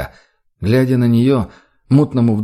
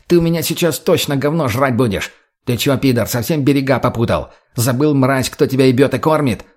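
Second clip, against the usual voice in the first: yelling in his face; 3 semitones higher than usual. Acted. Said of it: "закричал Базару прямо в лицо".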